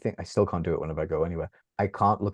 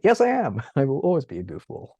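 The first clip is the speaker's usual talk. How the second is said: high, loud, laughing yes I am; laughing proud reply; 7 semitones higher, 4 dB louder than usual. Real, not acted. To best friend DJ, laughing high and proud. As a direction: gleefully own being the goofball. Proudly claiming goofball label.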